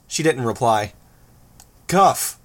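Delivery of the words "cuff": sharp loud call of her name; raised voice. Acted. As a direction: snap her name out loudly. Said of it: "Tecton raised his voice".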